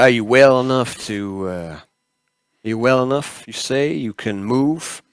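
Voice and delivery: a hint of Southern in the doctor's voice; attempted Southern accent. Doctor checking on a waking patient, light Southern accent. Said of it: "I'm just gonna get into my accent".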